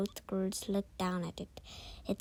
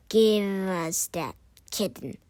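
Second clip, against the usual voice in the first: loud, slow demanding order; bully the girls into handing it over; goblin order; 9 dB louder than usual. Acted. Goblin demanding the kitten from the girls, loud slow order. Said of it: "one of them ordered".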